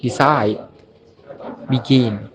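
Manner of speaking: de-CIDE, be-GIN, second syllables stressed; "decide, begin", each weighted on its last syllable. Shown as a demonstration. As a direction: lean on the end of "decide" and "begin". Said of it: "Stress on last syllable".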